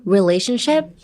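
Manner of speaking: relationship with the RE at the front pushed hard; stress on RE. Shown as a demonstration. The teacher demonstrates relationship to students, the RE pushed hard. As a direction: put all your strength on the RE of relationship, then let the rest flow out. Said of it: "emphasis on the R E".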